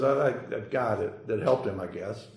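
a lawyer who can't bring himself to say Samaritan, mildly reluctant; reluctant mumble. Retold or imitated. Lawyer grudgingly answering Jesus, a touch of reluctance. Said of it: "you almost sense the reluctance".

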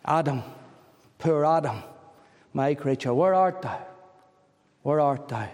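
understated sorrow, broken up by pauses; sorrowing cry. Retold or imitated. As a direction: imitate a grieving call, held back and unhurried. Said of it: "the Lord's sorrowing cry".

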